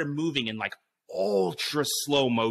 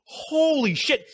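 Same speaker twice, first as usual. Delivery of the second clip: much higher, louder, slow holy shit; shocked; 11 semitones higher, 4 dB louder, much slower than usual. Retold or imitated. Walking up the hill into rattlesnakes, a slow, higher, louder shocked gasp. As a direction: drag it out in horror. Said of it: "I'm just, like, going".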